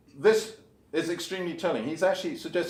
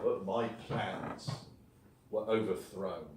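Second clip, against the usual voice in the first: "were overthrown" said lower and softer, trailing off; hushed quoted line; 5 semitones lower, 7 dB quieter, slower than usual. Retold or imitated. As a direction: let the quote sink down and fade. Quoting Darwin's letter, then drum roll.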